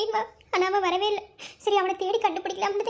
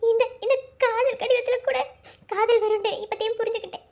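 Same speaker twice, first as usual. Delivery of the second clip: tearful confession; 2 semitones higher than usual. Acted. Tearful confession of unanswered love.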